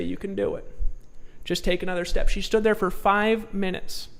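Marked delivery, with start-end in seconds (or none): 0.0-2.3 soft encouragement. Retold or imitated. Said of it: "and I say".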